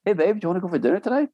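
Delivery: breezy offhand invitation; imitating wife's casual question. Wife to husband about dinner, a fast lightly voiced ask. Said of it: "she'll go".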